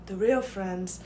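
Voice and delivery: hushed true crime narrator whisper. Acted. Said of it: "Investigation discovery narrator".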